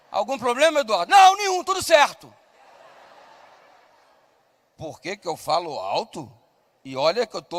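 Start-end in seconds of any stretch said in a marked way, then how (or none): 1.1-2.3 high, loud shouted all-fine; boy loudly telling the teacher nothing is wrong; shouted reply. Retold or imitated. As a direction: answer the teacher at full volume.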